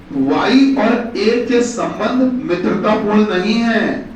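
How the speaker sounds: slow, deliberate dictating pace; slow dictation. Shown as a demonstration. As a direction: read it out slowly for copying. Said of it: "लिखिएगा". (धीमी गति से लिखवाना)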